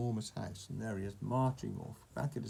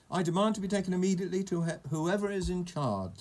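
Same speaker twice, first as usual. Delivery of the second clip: high, indignant demand; storybook anger, pitched up; angry; 6 semitones higher, 5 dB louder than usual. A narrator's reading. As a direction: demand it crossly, louder at the start. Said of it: "said Mister Uppity angrily".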